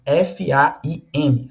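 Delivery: F A I M letter by letter, slow; spelling out slowly. Shown as a demonstration. Teacher spelling faim for students, slow letters. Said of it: "que é a palavra fome em francês".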